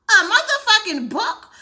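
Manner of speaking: slow, laughing repeat of the question; laughing disbelief. Real, not acted. Gamer repeating the outrage, now laughing slowly. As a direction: let the outrage turn into a laugh.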